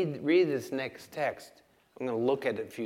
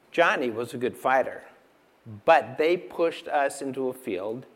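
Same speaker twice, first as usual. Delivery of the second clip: story narration; 8 dB louder than usual. A narrator's reading. Reads a story from a book.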